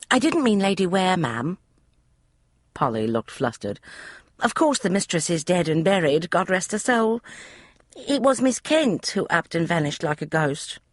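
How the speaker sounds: put-on high, eager young maid's voice; a chatty servant girl, pitched high; maid Polly. Maid Polly explaining the room to Emma, high eager voice. Flustered Polly corrects Letty.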